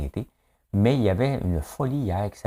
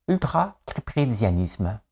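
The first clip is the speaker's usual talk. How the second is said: game-show contestant; 3 semitones higher, slower than usual. Retold or imitated. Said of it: "Des lettres et des mots".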